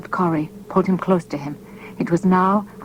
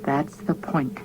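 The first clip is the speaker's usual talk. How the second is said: softer, low and heavy; quietly; 3 semitones lower, 6 dB quieter, slower than usual. A narrator's reading. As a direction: say it quietly with misery. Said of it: "he said quietly".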